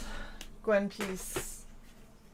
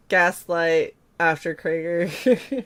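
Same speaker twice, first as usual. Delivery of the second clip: drawn out; 11 dB louder, much slower than usual. Real, not acted. Drawn-out joke delivery.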